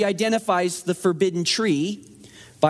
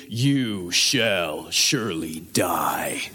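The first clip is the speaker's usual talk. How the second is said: low, breathy warning whisper; grave whisper; 11 semitones lower, much slower than usual. Acted. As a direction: hush it like a dire warning. God's warning voiced.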